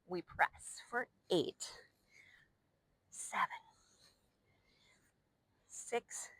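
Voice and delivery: slow whisper through the count. Real, not acted. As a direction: breathe the numbers out in a whisper. Whispered count during side push-ups.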